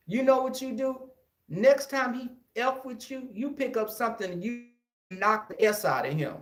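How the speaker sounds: high, pushy auntie voice; fierce aunt. Retold or imitated. Aunt telling her nephew to hit the bully back. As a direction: urge him to fight back. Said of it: "And she said".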